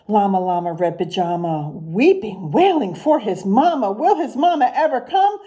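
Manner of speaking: sing-song rhyming picture-book read, unhurried; reading to children. Acted. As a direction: read the rhymes to the class with a lilt. Teacher reads picture book aloud.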